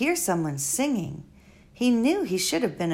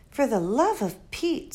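lightly voiced exasperated girl; a hint of girlish impatience; Flora; 4 semitones higher than usual. Girl exasperated at the old doctor, mild.

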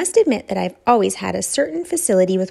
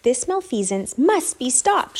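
mild shout; 4 semitones higher than usual. Acted. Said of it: "shouted Flora".

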